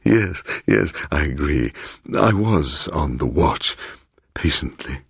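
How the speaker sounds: lightly voiced, insinuating old host; a hint of a smooth, teasing host welcoming a guest; sly host Bloom. Host Bloom teasing his surprised guest, lightly voiced insinuating tone.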